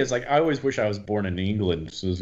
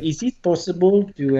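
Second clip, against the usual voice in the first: put-on French tourist accent; 9 semitones higher than usual. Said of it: "do they teach this in every English class".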